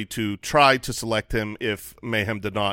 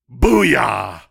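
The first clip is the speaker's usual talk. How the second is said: celebratory shout; 6 dB louder, slower than usual. Real, not acted. Celebrating his pick.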